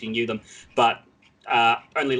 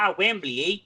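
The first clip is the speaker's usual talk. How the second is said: put-on puppet voice with a Canadian accent, pitched up; higher character voice, mock Canadian accent; Gobo; 5 semitones higher than usual. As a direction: end on a Canadian "eh". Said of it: "Oh, now it's Canadian".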